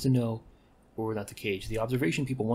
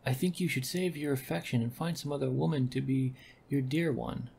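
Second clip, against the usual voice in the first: lightly voiced lines, slightly raised; read in a character voice; 4 semitones higher than usual. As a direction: gently act out the game dialogue. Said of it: "giving them the same voice".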